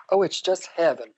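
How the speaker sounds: put-on light Southern accent, mother's voice; a hint of a Southern accent. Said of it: "Using my mother's Southern accent".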